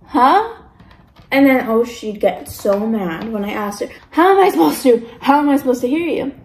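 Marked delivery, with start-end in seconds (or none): 0.0-0.5 high, questioning huh; baffled huh. Retold or imitated. Acts out not hearing mumbling friend. 4.1-6.3 louder, higher start, easing off; exasperated complaint. Retold or imitated. Retold exasperation at mumbling friend.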